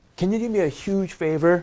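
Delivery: gentle, super polite delivery. Example of asking someone a favor, soft, super polite request. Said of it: "it sounds really soft because of my intonation".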